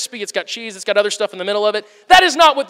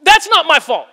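mock snippy retort; 4 semitones higher than usual. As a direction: play the waiter snapping back in pretend. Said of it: "you don't say".

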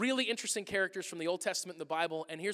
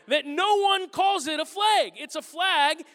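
loud, high, exasperated rant; raised mock-indignant voice; indignant outburst; 7 semitones higher, 7 dB louder, slower than usual. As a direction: insist loudly that they are the weird ones. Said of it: "And I'm like".

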